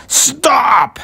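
very high-pitched, drawn-out halting cry; loud order. A narrator's reading. Hank halting Ned the squirrel, loud order. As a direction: call it out as a command. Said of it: "Hank loudly ordered".

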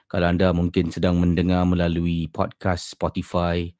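ordinary talk, nothing marked

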